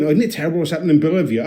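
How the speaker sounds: fast, fussy tut-tutting concern; mock Guardian reader. Mocking a Guardian reader, fast and fretful. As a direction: fake the hand-wringing of a worried newspaper reader. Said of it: "If I was reading The Guardian and going".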